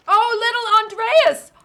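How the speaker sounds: high, loud delighted greeting; excited. Real, not acted. Greets game child excitedly.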